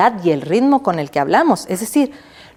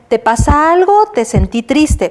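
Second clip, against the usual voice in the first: concerned friend; 5 semitones higher, 4 dB louder than usual. Retold or imitated. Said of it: "y me dicen".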